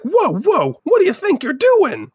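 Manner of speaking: high, loud mock protest; hammed-up, high-pitched objection; acted outrage. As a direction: play an indignant rider confronting someone. Biker protests in retold quote.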